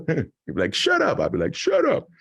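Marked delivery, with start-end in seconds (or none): 0.7-1.2 mock teacher snapping "Shut up", much higher. Kid mimicking his teacher to the class, higher mock voice. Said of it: "mocking people". 1.5-2.1 mock teacher snapping "Shut up", much higher. Kid mimicking his teacher to the class, higher mock voice. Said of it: "mocking people".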